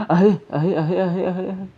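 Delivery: jittery giggles through the fear; nervous laughing. Real, not acted. Gamer laughing nervously as the ghost nears.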